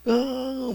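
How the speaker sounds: high imitated cry of a distressed child; child's anguished cry. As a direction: act out the son's torment. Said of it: "막 괴로워하는". (괴로워하는 아이의 높은 울음 흉내)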